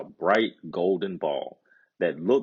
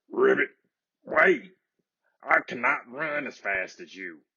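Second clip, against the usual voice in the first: croaking call after her; 5 semitones higher than usual. A narrator's reading. Frog calls after the princess running to the palace. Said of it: "The frog croaked after her".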